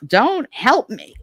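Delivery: high, slow, drawn-out mock protest; grandma refusing help. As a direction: imitate a stubborn grandmother, stretching each word. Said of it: "the fact that she used to".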